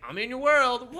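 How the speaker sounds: loud high woo. Retold or imitated. Lovecraft rampaging through Wonderland, whooping loud. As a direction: cheer it like a party animal. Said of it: "Lovecraft was just like".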